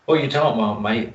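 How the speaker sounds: badly faked Aussie barman; terrible Australian accent. Barman mocking a customer's question, bad Australian accent. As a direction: put on a poor Australian accent. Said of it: "absolutely terrible Australian accent".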